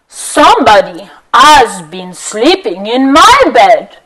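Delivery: lightly voiced papa bear, drawn out. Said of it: "Papa Bear says".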